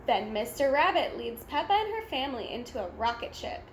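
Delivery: ordinary delivery, nothing marked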